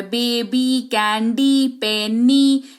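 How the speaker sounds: बेबी, कैंडी, पेनी each ending on a clear "ee"; teaching list, long "ee" closing बेबी, कैंडी, पेनी; final Y as EE. Shown as a demonstration. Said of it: "उच्चारण ई के तौर पर".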